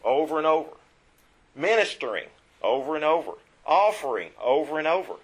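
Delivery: over and over hammered each time; stressed repetition. Shown as a demonstration. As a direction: drive home the repetition. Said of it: "what's the emphasis?".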